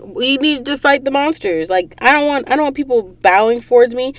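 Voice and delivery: mild mock distress; retold protest. Retold anxious protest to Arthur.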